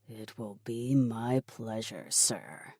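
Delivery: soft, sinking low; sinister henchman. Acted. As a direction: relish the order quietly, dropping on the last word. Henchman accepts murderous errand.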